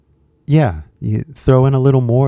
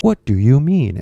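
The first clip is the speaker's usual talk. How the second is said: lightly mimicked stilted teacher talk; a hint of robot in the teacher voice; 2 semitones higher than usual. Native speaker switching into teacher talk for a learner, lightly robotic. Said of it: "start talking like a robot".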